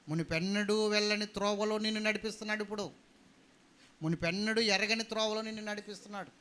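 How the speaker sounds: emphatic preacher's proclamation; fervent preaching. Real, not acted. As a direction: press it home to the congregation. Preaches with raised voice.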